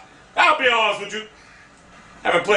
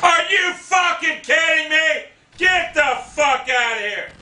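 incredulous rage; 7 semitones higher than usual. Real, not acted. Gamer killed in the match, outraged shout. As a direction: yell in outraged disbelief.

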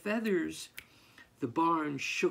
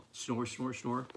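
contented snoring; 4 semitones lower, 5 dB quieter than usual. Acted. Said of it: "contented snoring".

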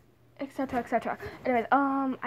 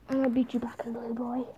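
whispered threat; 4 semitones lower, 9 dB quieter, much faster than usual. Pretend.

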